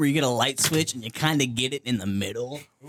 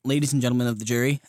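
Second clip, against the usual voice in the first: pompous courtroom lawyer voice; mock lawyer; 2 semitones lower, much faster than usual. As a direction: address the jury grandly.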